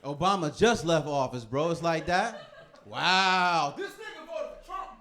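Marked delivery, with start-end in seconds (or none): 2.8-4.9 mock outraged passenger. Passenger mocking him.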